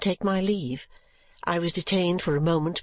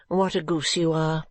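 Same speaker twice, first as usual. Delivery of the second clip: whisper; 2 semitones lower than usual. Acted. Mother dismisses daughter.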